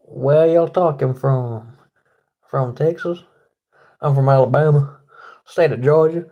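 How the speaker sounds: messing around in a Southern twang; mock Southern accent. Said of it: "I'm just messing around".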